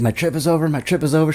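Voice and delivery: high-pitched mock wail without volume; retold screaming. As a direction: re-enact frantic despair at moderate volume. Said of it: "I'm, like, screaming at this poor lady".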